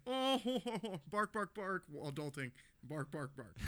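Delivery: high, laughing mock dog bark. Friend mocking dogs barking adulting, laughing yap.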